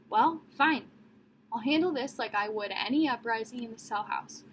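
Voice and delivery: put-on hard, loud stern warden threatening the kids; angry warden punishing the children.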